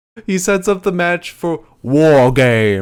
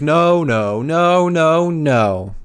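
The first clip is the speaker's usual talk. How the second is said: higher, louder whiny no's; a hammed-up Johnny, waving it off; mock Johnny protest; 5 semitones higher, 4 dB louder, much slower than usual. Podcaster imitating Johnny refusing, mock whine. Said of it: "Johnny's like".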